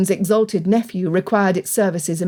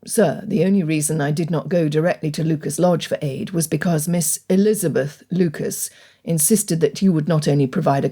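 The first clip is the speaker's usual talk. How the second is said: put-on low, formal young gentleman; Darcy voice; 4 semitones lower than usual. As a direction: speak low and measured. Narrator voices Darcy's reply.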